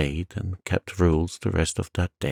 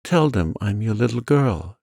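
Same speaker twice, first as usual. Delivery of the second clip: begging; 3 semitones higher than usual. Acted. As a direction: beg her earnestly. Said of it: "she begged".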